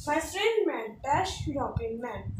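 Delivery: each word read slowly and evenly; slow dictation for students. Shown as a demonstration. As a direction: read it out slowly for the class to copy. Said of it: "Let's move to the fourth sentence".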